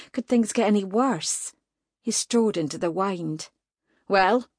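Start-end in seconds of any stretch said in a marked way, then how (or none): 4.1-4.5 louder, impatient; impatient demand. Acted. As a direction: bark the question. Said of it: "he demanded".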